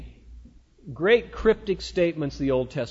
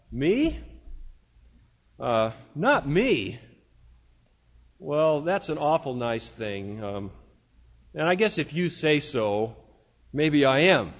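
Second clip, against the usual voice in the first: acted modest disbelief, haltingly; bashful hesitation; 4 semitones lower than usual. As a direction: stall shyly, then reluctantly accept the praise. Acts own modest reply to praise.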